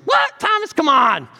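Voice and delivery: high, loud mock disbelief; a hammed-up outraged what; incredulous student. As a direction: playfully protest the prophecy. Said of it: "the student was like".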